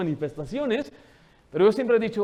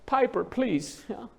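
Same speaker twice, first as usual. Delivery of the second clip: mock pleading mom, slow and higher; pleading mother; 5 semitones higher, much slower than usual. Embarrassed mother begging screaming toddler, pleading. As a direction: imitate a helpless mom begging her toddler. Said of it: "y la mamá diciendo".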